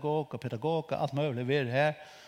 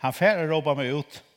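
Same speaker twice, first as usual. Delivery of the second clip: repeated quote; 2 semitones higher, 5 dB louder than usual. Retold or imitated. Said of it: "han har sagt".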